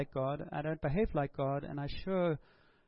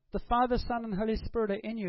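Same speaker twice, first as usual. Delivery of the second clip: high, loud and quick, ringing out; a preacher's loud ringing declaration; loud proclamation; 5 semitones higher, 4 dB louder than usual. Real, not acted. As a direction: proclaim it to the whole room. Preacher proclaiming the Trinity within.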